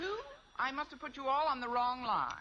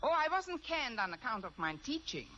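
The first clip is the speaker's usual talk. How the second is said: fake German accent. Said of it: "If I can do a decent German accent".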